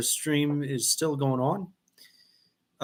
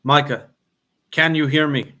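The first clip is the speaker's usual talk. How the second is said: calling out; 5 dB louder than usual. Real, not acted. Calling viewer to check connection.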